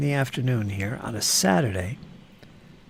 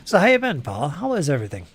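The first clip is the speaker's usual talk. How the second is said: cheerful greeting; 4 dB louder, faster than usual. Real, not acted. Greeting the one viewer.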